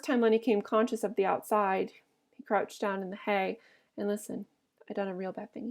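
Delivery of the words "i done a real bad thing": hushed, frightened. A narrator's reading. Lennie frightened, hiding what he did.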